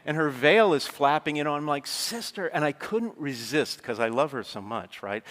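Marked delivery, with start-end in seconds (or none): 1.9-2.5 high, teasing call of Sister; fond mock scolding; affectionate teasing. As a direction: playfully call out to the nun. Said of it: "affectionately teasing her and chiding her".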